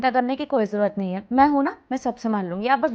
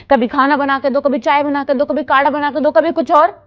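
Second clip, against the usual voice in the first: rising irritation through each repeated demand; complaining list that ends louder; exasperated listing; 5 dB louder than usual. Acted. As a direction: reel off the chores, fed up. Daughter complains about endless chores.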